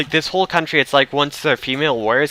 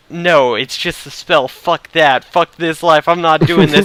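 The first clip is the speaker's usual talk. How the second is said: mock-indignant refusal, higher voice; defiant refusal; 4 semitones higher, 5 dB louder than usual. Player voicing a game character rejecting the spell, defiant. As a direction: act out digging your heels in.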